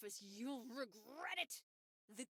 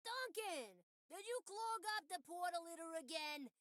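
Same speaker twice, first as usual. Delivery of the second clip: scolding character voice. Acted. Plays scolding NPC.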